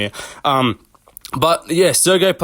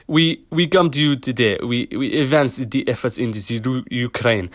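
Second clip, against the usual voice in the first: put-on a clumsy, half-hearted Russian accent speech; bad Russian accent. Vlogger imitating Pavlovich addressing Russians, in a bad Russian accent. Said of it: "I can't do a fucking Russian accent".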